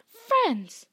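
high, loud angry bellow of the name; thundering call. A narrator's reading. Bane shouting at Firenze for carrying a human, furious call. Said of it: "Bane thundered".

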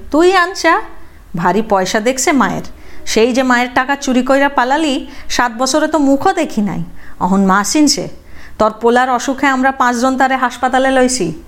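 high, bitter scolding; scolding mother. Acted. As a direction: scold the runaway son sharply. (ছেলেকে তিরস্কার করা মা, উঁচু গলায়)

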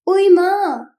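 Meena cries out, stomach suddenly hurting; sudden cry of pain. A narrator's reading. Sudden yelp of pain from Meena. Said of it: "तभी मीना चिल्लाने लगी".

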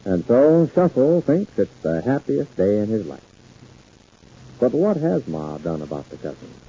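calm radio sign-off voice; old radio announcer. Acted. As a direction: wrap up the show warmly. Announcer closes the episode.

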